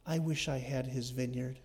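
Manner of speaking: hammed-up self-pitying moan of a sulking king; mock lament. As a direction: lament with mild, put-on misery. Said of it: "He was sitting there lamenting".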